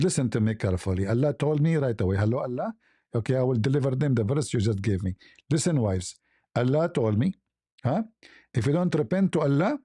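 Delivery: low, stern prophet lecturing the wives; voicing the prophet. Prophet warning his wives in a low stern voice. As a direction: pitch it down and lay down the law.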